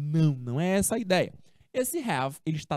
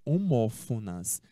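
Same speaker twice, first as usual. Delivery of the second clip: slow model word; 9 semitones lower, slower than usual. Shown as a demonstration. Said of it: "teacher models the word".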